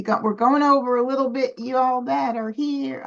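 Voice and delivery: Southern country accent, easy and cheerful. Real, not acted. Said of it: "sound like a country girl".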